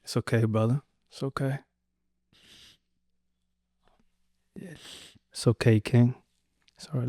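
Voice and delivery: soft, gentle reassurance; real comforting. Real, not acted. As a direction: softly console a grieving brother, leaving long pauses. Comforting grieving guest after loss.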